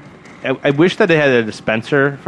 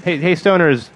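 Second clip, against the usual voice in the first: ad pitchman; 6 semitones higher, slower than usual. Pretend. Mock fast food ad pitch.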